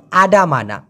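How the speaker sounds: "আডামানা" with clear full a vowels, falling at the end; correct pronunciation. Shown as a demonstration. Teacher repeating the standard Malay form, correct pronunciation. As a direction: pronounce "আডামানা" in the standard way with open a endings. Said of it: "এটা হচ্ছে শুদ্ধ উচ্চারণ".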